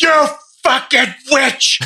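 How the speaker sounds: high, slow, hammed-up shout of you fucking witch; mock villager accusation. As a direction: drag it out like a superstitious villager. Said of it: "They're like".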